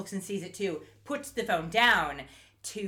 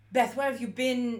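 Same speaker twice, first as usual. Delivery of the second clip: half-failed, bad put-on German accent; 4 semitones higher than usual. Retelling how a woman greeted her friend: attempted german accent. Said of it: "she has a German accent".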